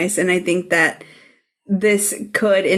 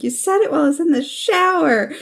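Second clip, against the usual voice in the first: defeated; 8 semitones higher, faster than usual. Retold or imitated. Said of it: "so defeated".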